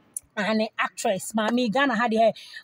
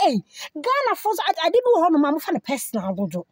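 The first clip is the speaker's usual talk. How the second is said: exasperated exclamation; 4 semitones higher, faster than usual. Retold or imitated. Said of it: "Ɛna me sɛ".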